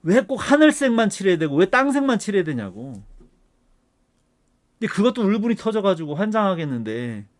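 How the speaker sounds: heated, indignant lecturing with punched key words; worked-up rant. Real, not acted. Professor venting at online experts who treat guidelines as law, worked-up rant. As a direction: argue it hotly, voice riding up. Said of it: "이렇게 막 흥분을 해가면서".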